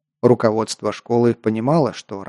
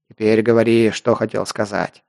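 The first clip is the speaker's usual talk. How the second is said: calmer growl; 2 semitones lower than usual. Acted. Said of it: "уже более спокойно рыкнул сержант".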